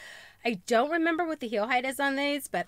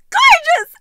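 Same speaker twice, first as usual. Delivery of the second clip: much higher, louder cry of joy; excited shout; 14 dB louder than usual. Real, not acted. Gushing to viewers about heels, excited shout. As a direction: belt out your delight. Thrilled by the shoes.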